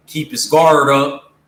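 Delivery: put-on Suge Knight Cali accent. To Tupac, warning him, in a weak Cali accent. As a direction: lean into a weak Cali accent on each word. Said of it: "Damn, I ain't do a good Cali accent".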